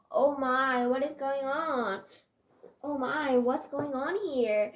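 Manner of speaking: loud, startled demand; teacher's loud, shocked question; shocked exclamation. Acted. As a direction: exclaim at the uproar, voice projected. Teacher finds classroom in uproar.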